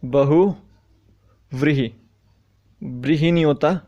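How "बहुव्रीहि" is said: बहुव्रीहि stretched out very slowly, each syllable separate; teacher slowly dictating बहुव्रीहि; slow dictation. Shown as a demonstration. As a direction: sound out बहुव्रीहि slowly for the class. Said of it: "अब अगर बात आई बहुव्रीहि".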